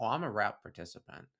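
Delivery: ordinary delivery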